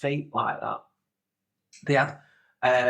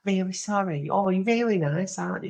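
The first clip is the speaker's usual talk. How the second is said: higher put-on apologetic voice; mock sorry, higher-pitched voice; imitated contestant; 6 semitones higher than usual. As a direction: mimic her letting him down kindly. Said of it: "she went".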